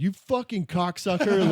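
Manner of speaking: drawn-out yell, high and loud; retold angry yell. Trucker to the guy cutting him off, angry yell. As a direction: re-enact yelling at a driver. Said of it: "I slammed on the brakes and I yelled".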